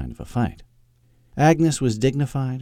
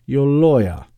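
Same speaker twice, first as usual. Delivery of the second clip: prim British disdain, higher and louder; distaste; 5 semitones higher, 6 dB louder, slower than usual. Acted. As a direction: say it as if it smells bad. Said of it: "crinkled her nose in distaste".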